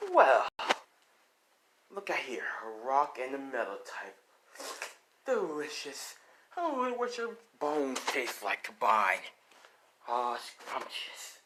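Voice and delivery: a hint of a gloating Vulture savouring prey; lightly voiced cannibal villain. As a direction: lightly play a hungry villain, relishing the meal.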